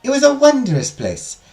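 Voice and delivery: measured, lilting legend narration; storytelling teacher. Acted. Teacher tells students of the forbidden garden, storytelling. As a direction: tell the legend to a class with care.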